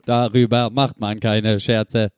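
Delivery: slow robotic computer voice. Pretend. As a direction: speak like an old speech synthesizer. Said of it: "meine Computerstimme".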